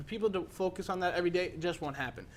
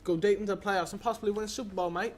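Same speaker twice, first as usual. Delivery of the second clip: a light put-on Australian accent, lad and mate tacked on; mock Australian accent; 3 semitones higher than usual. Host hypes the Patriots to his co-host in a light mock Australian accent. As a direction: play the cheeky Aussie bloke, lightly. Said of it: "Mate? That's Australian".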